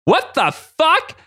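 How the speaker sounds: mock baffled outburst, high and slow; Rogue. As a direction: stretch it out in exaggerated disbelief. Acting Rogue's baffled reaction.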